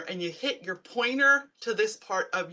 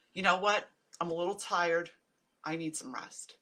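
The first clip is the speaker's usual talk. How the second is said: calm reworded self-talk; 2 semitones lower than usual. Retold or imitated. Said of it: "reword it".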